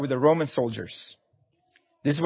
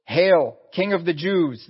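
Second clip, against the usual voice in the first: mock hail; 3 semitones higher, slower than usual. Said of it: "but they mocked him".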